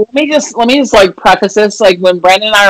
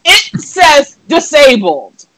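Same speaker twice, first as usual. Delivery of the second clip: slow, emphatic; 5 semitones higher, much slower than usual. Retold or imitated. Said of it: "He said, Huh?".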